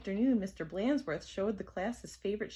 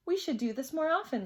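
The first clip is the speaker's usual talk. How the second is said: gleeful; 7 semitones higher, 3 dB louder, faster than usual. Acted. Kids gleeful.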